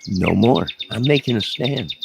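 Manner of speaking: mock heroic defiance; defiant stand. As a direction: plant your feet and declare it. Defiant stand against woman.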